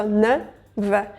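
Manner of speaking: "N, V" sounded as nuh, vuh; separate consonant sounds. Shown as a demonstration. Teacher isolating the cluster, nuh and vuh apart. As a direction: say N and V apart, each with uh. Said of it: "add a between N and V".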